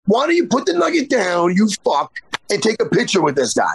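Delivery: imagined telling-off, heated at first, then settling; imagined rant. Retold or imitated. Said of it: "And I'm like".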